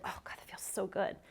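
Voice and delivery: hushed, breathy sigh of real relief; blissful relief. Real, not acted. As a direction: sink into comfort, barely voicing it. Settles head into the blanket cradle.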